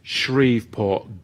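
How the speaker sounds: Shreveport, slowly, with a long "Shreeve"; careful place-name pronunciation. Shown as a demonstration. Host checking the town's name with Libby, slow careful pronunciation. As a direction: draw out the first syllable of Shreveport. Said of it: "is that what it, how you pronounce it".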